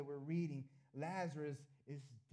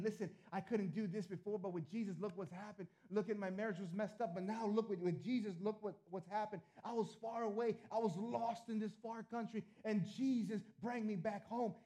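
eager, higher-pitched witness; excited testimony; 5 semitones higher than usual. Acted. Preacher voicing a convert sharing with somebody, excited.

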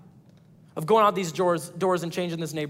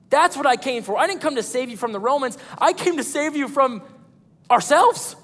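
Jesus speaking; 4 semitones higher than usual. Acted. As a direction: declare it as Jesus, building. Pastor voices Jesus' declaration.

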